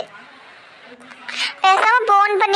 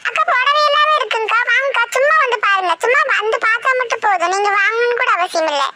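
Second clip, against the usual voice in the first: singsong street hawker; 3 semitones higher than usual. Acted. Tout calls customers.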